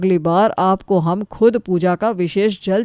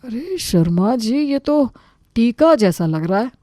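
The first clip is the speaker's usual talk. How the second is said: feigned surprise; 4 semitones higher than usual. Acted. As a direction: act mildly amazed, stretching the opening words. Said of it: "फिर हैरानी दिखाते हुए". (बनावटी हैरानी से)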